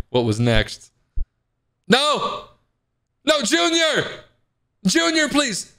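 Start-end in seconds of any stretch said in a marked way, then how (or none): 1.9-5.7 very high mock-desperate wail; panicked pleading. Mama rabbit pleading as the man nears Junior, panicked. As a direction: plead in a high voice for the child to be spared. Game intruder about to find Junior.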